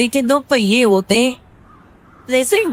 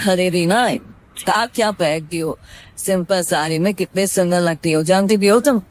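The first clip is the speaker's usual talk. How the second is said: lower, gentle husband praising wife; husband's voice; 4 semitones lower than usual. Acted. Husband praises Reena's simple saree, lower and fond. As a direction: coax her kindly, lower.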